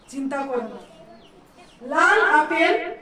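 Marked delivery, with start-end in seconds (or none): 1.8-2.9 slow, loud demo of লাল আপেল; slow drawn-out phrase. Shown as a demonstration. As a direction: stretch লাল আপেল slowly and loudly. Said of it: "সেটা মন দিয়ে শোনো।".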